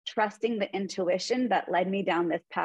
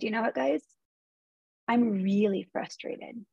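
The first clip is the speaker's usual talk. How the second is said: calm compassionate tone. Retold or imitated. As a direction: say it with compassion, not judgment. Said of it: "Again, in this tone of voice, compassion".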